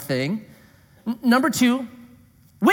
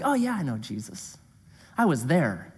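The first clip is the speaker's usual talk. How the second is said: hitchhiker; 5 semitones lower, 7 dB quieter than usual. Retold or imitated. Odd hitchhiker voiced low, quiet.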